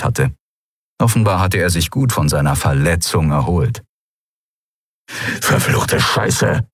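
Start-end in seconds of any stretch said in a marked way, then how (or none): 5.4-6.7 slow, voiceless hiss; hissed curse. A narrator's reading. Urdrak trapped inside the force field, hissed curse. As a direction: hiss the swear word through the teeth. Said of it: "zischte Urdrak".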